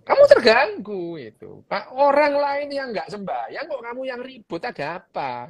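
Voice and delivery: half-hearted indignant quote, opening burst; mock complaint. Quoting a bothered person's complaint.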